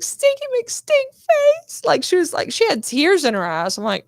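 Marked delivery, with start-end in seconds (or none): 0.0-1.8 high, slow, taunting sing-song; mock insult in character. Actress yelling an insult in the scene, taunting. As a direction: drag it out like a playground taunt. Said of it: "when she was like".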